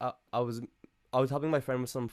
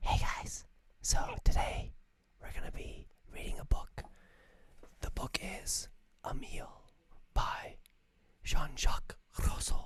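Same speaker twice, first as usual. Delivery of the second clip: soft breathy ASMR-style whisper; 5 dB quieter than usual. Joking about narrator voices, the speaker demos an ASMR reading voice. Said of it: "Just do some ASMR".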